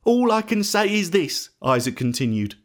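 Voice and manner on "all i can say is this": high-pitched, sorrowful reply; acted distressed old father; grieving father. A narrator's reading. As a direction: relent with what little you can offer. Isaac answers weeping son.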